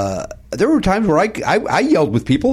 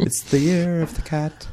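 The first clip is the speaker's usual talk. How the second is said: impression of a singer; 5 dB quieter than usual. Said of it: "he had a little bit of a lisp".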